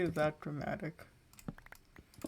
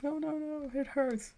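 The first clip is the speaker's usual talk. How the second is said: much higher mock whine; high, hammed-up whining no no no; whiny kid; 8 semitones higher than usual. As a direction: imitate the cousin faking pain. Kid refusing help, faking pain.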